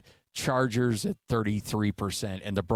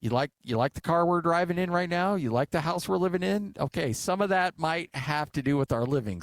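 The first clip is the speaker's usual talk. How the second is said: mock scolding dad; 4 semitones higher than usual. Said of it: "And I'm like".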